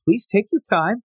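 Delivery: lightly voiced eager waiter, brisk; polite waiter. Boy slipping into waiter mode, lightly voiced and polite. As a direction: slip into a courteous server. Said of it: "he's in full mode".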